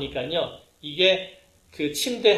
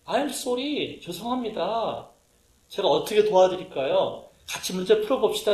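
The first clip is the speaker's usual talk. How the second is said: polite apology; 3 semitones higher than usual. Shown as a demonstration. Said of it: "첫 마디가 뭐 해야 돼요?".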